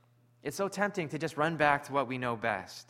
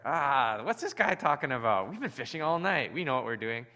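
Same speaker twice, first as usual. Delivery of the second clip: scoffing fishermen; 4 dB louder than usual. Retold or imitated. Disciples scoff at the stranger.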